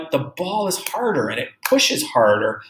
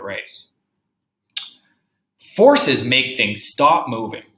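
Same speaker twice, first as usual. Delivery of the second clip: slow, careful read-aloud; reading a picture book to a class; reading to children; slower than usual. Acted. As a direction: read the book slowly for young kids. Reads the science book aloud.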